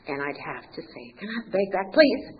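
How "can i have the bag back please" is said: insistent request, higher and louder on please; ego taking over. Retold or imitated. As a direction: demand it back, punching the final please. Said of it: "my ego would take over".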